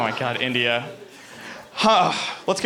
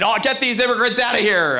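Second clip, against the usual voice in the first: attempted Irish accent, a bit higher; bad Irish accent; 4 semitones higher than usual. Comic mimics fighter's speech against immigrants, bad Irish accent. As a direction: botch an Irish accent for a mock rant. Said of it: "I can't do an Irish accent".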